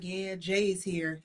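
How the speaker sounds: lightly voiced ex-husband, slow and deadpan; lazily unbothered, slowed right down; a hint of the calm ex, slow; slow mock drawl. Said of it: "my ex-husband's like".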